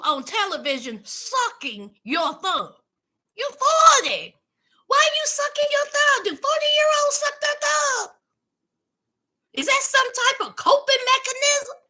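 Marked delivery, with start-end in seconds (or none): 3.4-11.8 incredulous scolding. Real, not acted. Vlogger scolding Branwen for sucking her thumb at forty, high and sassy.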